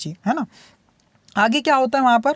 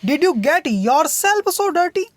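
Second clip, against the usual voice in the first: higher, slow, a touch of a scolding mother; mild scolding; 5 semitones higher, much slower than usual. Acted. Mother scolding her muddy daughter, mildly cross and slow. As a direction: scold the child gently, drawing it out. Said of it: "वो उसे डांटती हुई क्या कहती है".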